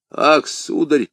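high, drawn-out fearful moan; acted fearful exclamation, high and slow; frightened servant. A narrator's reading. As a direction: moan to your master, half dead with fear. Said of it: "пробормотал Планше, еле живой от страха".

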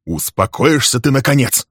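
sharp, irritated demand. Acted. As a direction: cut her off, fed up. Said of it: "раздражённо спросил он".

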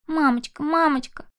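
put-on high, tearful child's call; a scared little girl pleading; crying child. Frightened child repeating. (детский плач)

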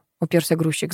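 ordinary delivery

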